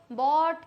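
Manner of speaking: बॉट rhyming with "caught"; correct pronunciation. Shown as a demonstration. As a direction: say बॉट with an open "aw" vowel. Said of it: "इसको हम बोलते हैं बॉट".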